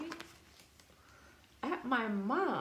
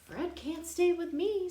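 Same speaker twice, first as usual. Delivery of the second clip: high, louder, firm mom voice; 11 semitones higher, 7 dB louder than usual. Acted. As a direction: put your foot down as mom. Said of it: "says my mom".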